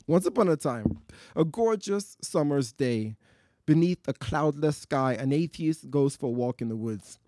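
lively storyteller voice; story narration. Acted. Performer to audience, lively storytelling. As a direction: spin the tale for a live crowd.

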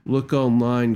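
normal talking voice

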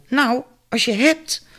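high, slow, hoarse eager "Nou, als je hebt"; drawn-out greedy hint from an odd old neighbour. A narrator's reading. Liz gladly accepts Mary's offer of tea, slow and high. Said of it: "Een schorre vrouwenstem".

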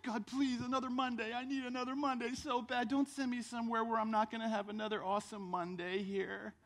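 hurried, even-toned begging prayer, lightly hammed up; mock pleading prayer. Preacher mimics believers praying for another Monday, mock pleading. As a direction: plead with God in mock neediness.

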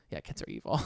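dropped low, mock-evil verdict on "evil"; mock sinister. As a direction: pronounce "evil" low and menacing, as a joke.

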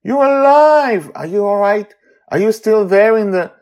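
high, loud, breathless joy; overjoyed. Acted. Amali to Charlie alive, high excited voice. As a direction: pour out disbelief. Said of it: "Amali almost screams".

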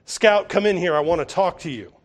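a touch of a stern housekeeper calling; firm summons from the kitchen. Retold or imitated. Calpurnia calls Scout into the kitchen, firm and stern. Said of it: "Calpurnia's stern voice".

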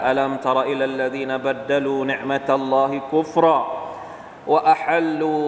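slow, drawn-out chanted recitation; Quran recitation. Acted. Preacher reciting verses slowly to the audience.

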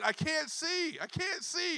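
high, lightly voiced little boy crying he can't see; quoting his frightened two-year-old to the church; imitating scared toddler. High mock-toddler voice.

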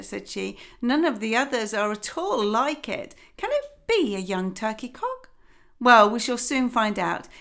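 lightly voiced fussy mother duck; a hint of a weary, busy mother; mildly fretful hen voice. Mother duck eyes the egg.

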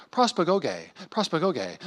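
prospagoge said slowly as pros-pa-go-gay, stress on go; careful Greek. Shown as a demonstration. Preacher trying the Greek word prospagoge as pros-pa-go-gay. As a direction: sound out prospagoge syllable by syllable, ending in gay. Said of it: "I'm gonna try to say the Greek word".

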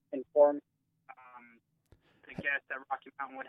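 bad cell reception, breaking up; phone cutting out. Real, not acted. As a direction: voice dropping in and out. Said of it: "your phone is kinda going up and down and in and out".

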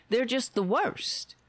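hushed, slow jab; whispered aside. Real, not acted. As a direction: whisper They're just the worst. Snide aside about politicians.

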